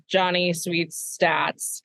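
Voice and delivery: Johnny Sweets stats dragged out slowly; host hyping a segment, slowly; drawn-out announcer intro. Shown as a demonstration. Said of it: "he always has a crazy statistic".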